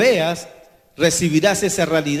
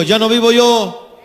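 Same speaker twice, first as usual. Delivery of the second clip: louder and slow, leading the church; loud, slow proclaiming; 4 semitones higher, 7 dB louder than usual. Acted. Preacher leads the congregation in a loud slow chant. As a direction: call it out slowly for the congregation to repeat. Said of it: "Digan conmigo".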